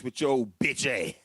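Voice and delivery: lightly mimicked scolding, drawn out; a gospel singer. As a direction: stretch it out in a mock scolding voice. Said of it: "in my ... voice".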